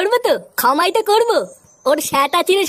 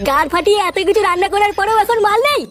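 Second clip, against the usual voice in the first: furious rant; 5 semitones higher than usual. Acted. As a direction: rage about the missing bottles, voice up high. Drinks gone, Paltu erupts. (রাগে চিৎকার)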